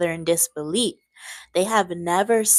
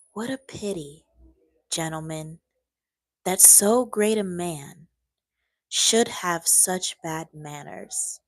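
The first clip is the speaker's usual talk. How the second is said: calm. Acted. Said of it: "said Talleyrand calmly".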